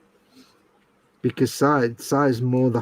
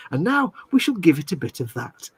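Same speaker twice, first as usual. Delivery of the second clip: lightly put-on posh accent; mock posh, carefully enunciated. Shown as a demonstration. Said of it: "a normal accent. But if you were to say".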